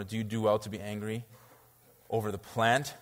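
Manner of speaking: a hint of kind, gentle questioning; gracious and kind. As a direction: ask it kindly, not scolding. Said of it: "just graciously and kindly".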